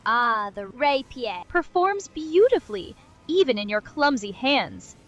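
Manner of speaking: snobby Englishman faking French; lofty mock-French advice; French accent. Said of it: "snobby French person".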